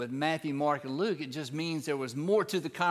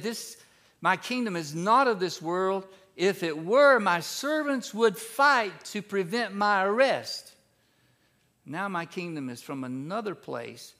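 lightly voiced Jesus; 3 semitones higher, 3 dB louder than usual. Preacher voicing Jesus before Pilate, earnest. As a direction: proclaim it with rising conviction. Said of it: "And this is when he said".

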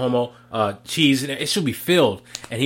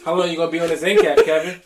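quick, higher needling question; mock sarcastic; 4 semitones higher, 3 dB louder, faster than usual. Coworker to Kevin twirling grapes, imitated sarcasm. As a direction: lightly imitate him, fast and jibing. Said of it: "he was so sarcastic".

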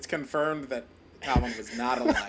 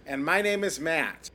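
newscaster voice. Acted. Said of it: "You sounded like a newscaster".

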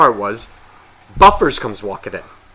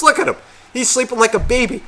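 put-on much higher, sing-song drunk pal; drunk buddy; 11 semitones higher than usual. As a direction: coo it like a tipsy friend admiring a baby. Drunk friend voiced mocking groom.

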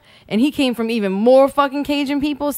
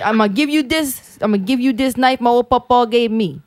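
put-on Cajun accent. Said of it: "I can't do it that good".

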